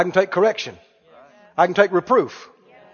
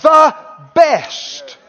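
louder, higher, hammering the best; preaching at full force; 6 semitones higher, 5 dB louder than usual. Real, not acted. Preacher proclaiming Jesus the best teacher, loud and high. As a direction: shout it to the back pew.

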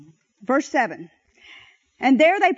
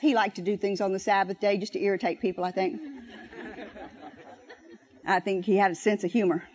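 chuckling; 9 semitones lower, 7 dB quieter, faster than usual. Real, not acted. Chuckling joke about Jesus.

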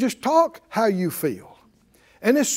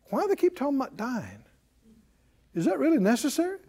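quick soft aside; 4 semitones higher, 6 dB quieter, faster than usual. Real, not acted. Preacher asks aside softly.

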